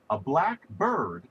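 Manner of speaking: "black bird" with the stress on "bird", slowly; slow down and lean on "bird" in "a black bird". Shown as a demonstration. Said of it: "is some bird that's black".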